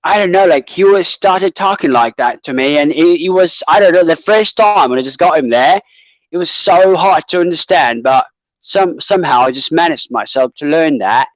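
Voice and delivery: attempted British accent with a Cockney touch; amateur British accent, chatty. Shown as a demonstration. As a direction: have your best shot at British. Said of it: "give you the best British accent".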